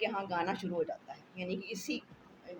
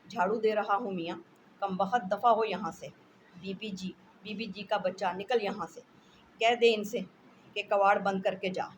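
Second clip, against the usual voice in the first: loud scolding back and forth; a housewife shouting at the servant to leave; 6 dB louder than usual. Acted. Servant and wife quarrel while sweeping.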